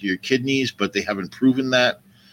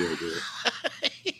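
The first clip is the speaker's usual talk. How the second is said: put-on laughing old man voice; 5 semitones lower, 13 dB quieter, much slower than usual. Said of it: "I did the old man voice".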